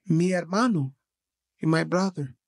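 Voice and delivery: lightly imitated Spanish-accented driver. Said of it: "forgive me of this accent".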